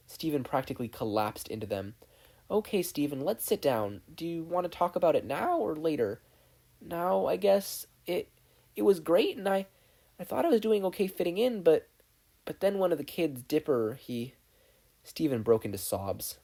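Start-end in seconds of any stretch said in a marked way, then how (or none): 2.5-6.2 a bit higher, gentle and caring; lightly voiced Connie. Connie comforting upset Steven, gently. 6.8-14.3 high, halting and choked up; fighting back tears, stumbling; tearful boy. Acted. Steven telling Connie what hurt him, close to sobbing.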